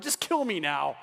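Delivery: low, resigned, acted plea; weary plea. Moses to the Lord about complainers, resigned. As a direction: drop low as a fed-up prophet. Moses begging God, fed up.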